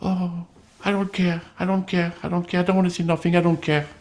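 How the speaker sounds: lightly voiced street tough brushing it off; street guy. Imitating Dave Bass brushing off the complaint like a street guy. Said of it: "he talks like a street guy".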